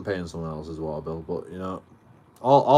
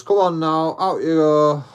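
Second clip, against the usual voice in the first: louder, higher bossy landlord; landlord ordering out; 7 semitones higher, 7 dB louder, slower than usual. Retold or imitated. Landlord telling tenant to leave, bossy and loud. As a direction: shoo him out the door.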